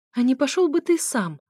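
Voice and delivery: irritated bark of a brush-off; snapped out loud. Acted. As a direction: snap back at full voice. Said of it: "рявкнула я в голос".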